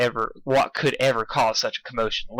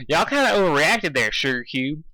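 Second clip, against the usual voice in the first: cowgirl voice; 4 semitones higher than usual. Acted. Applejack voice.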